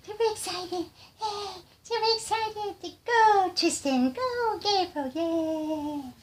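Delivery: very high, tiny put-on cheer; silly cheering voice. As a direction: squeak out a playful little cheer, drawing out the names.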